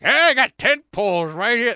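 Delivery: high, loud Chinese accent impression; hawking tent poles in a mock Chinese accent. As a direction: sell it like a street seller with a Chinese accent. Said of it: "That's my Chinese accent".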